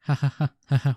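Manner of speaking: loud belly laugh, then words; hearty laugh. Acted. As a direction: laugh it up merrily. Drunk character laughs.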